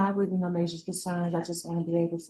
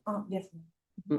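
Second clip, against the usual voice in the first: chewing gum; 6 dB quieter, slower than usual. Real, not acted. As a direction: mouth full of gum. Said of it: "are you chewing gum?".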